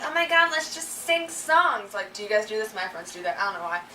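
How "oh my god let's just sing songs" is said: gushing friend. Retold or imitated. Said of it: "they're like".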